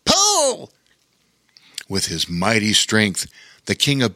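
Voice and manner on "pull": much higher sharp call; yelled command. Acted. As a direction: urge the bear to heave.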